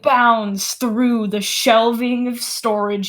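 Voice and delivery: slow, deliberate game master narration; relentless build as the monster charges; dramatic scene setting. A narrator's reading.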